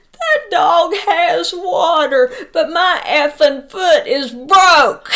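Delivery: high, loud, drawn-out mock wail; hammed-up high yell, nearly crying with laughter; exasperated outburst. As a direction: imitate an indignant wail, stretching the words. Retelling injured man's indignant outburst.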